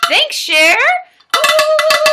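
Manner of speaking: loud, high celebratory whooping; excited cheer. Real, not acted. Streamer thanking Cher's support, loud high whooping. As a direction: thank them loudly, then whoop high.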